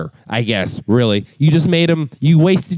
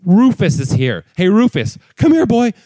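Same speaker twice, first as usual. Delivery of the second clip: high, coaxing calls to a dog; higher, cooing come here boy; calling the dog; 8 semitones higher than usual. Retold or imitated. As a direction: sweet-talk the dog over. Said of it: "and you're like".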